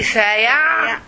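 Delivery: "سيعلمون" stopped on the ayn, then "lamūn"; sukun on ayn. Shown as a demonstration. Teacher modelling the word in parts, "سيعلمون" split at the ayn. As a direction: break "سيعلمون" after a closed ayn, lengthening the ending. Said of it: "the ain has sukun".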